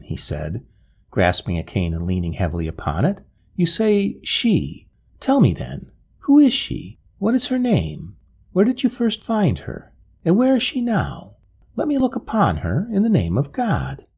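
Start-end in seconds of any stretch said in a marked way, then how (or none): 3.5-14.0 high, anguished pleading; distressed old gentleman. A narrator's reading. Father desperate to learn who the painted woman is, high anguished pleading. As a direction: beg desperately, clinging to every word.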